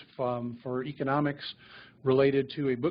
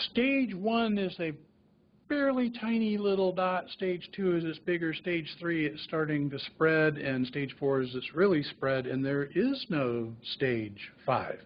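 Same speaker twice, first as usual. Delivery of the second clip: slow simple explanation; 3 semitones higher, slower than usual. Retold or imitated. Doctor breaks staging down for patient.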